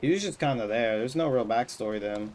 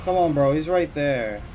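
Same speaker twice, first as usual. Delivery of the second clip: panicking gamer; 2 semitones higher, 6 dB louder than usual. Real, not acted. Frantic chasing the enemy.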